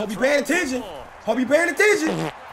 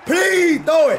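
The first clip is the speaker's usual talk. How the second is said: excited goading; 4 semitones higher, 4 dB louder than usual. Real, not acted. Goading opponent to throw.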